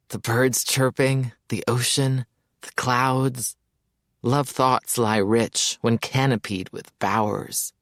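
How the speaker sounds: slow, lovestruck poetic recital; dreamy rhapsody. Acted. Mayers rhapsodising about Hope to his friend, slow and dreamy. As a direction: drift off into a love sonnet.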